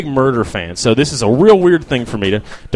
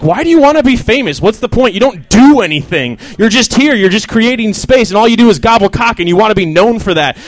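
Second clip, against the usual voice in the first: high, loud mock interrogation of a starlet; grilling interviewer; 6 semitones higher, 4 dB louder than usual. Comic imitating Ellen grilling a guest, high and loud. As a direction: bear down on her with pointed questions. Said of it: "She's doing a real interview".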